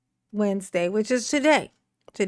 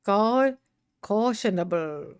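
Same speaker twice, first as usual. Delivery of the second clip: playful Irish lilt on "Cautionable"; put-on Irish accent; 3 semitones lower than usual. Streamer playing with a word, Irish accent. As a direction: draw out "Cautionable" in mock Irish. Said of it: "turn that Irish".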